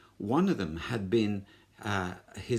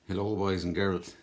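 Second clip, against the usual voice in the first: IRA man again; 3 semitones higher, 4 dB louder than usual. Acted. IRA man complains to the children about England, growing heated. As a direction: build up the grievance. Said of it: "I'm a member of the I R A".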